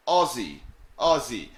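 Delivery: "Aussie" said with a buzzing z, like O-Z-Z-Y; pronounced like Ozzy. Shown as a demonstration. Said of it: "you pronounce it like O Z Z Y".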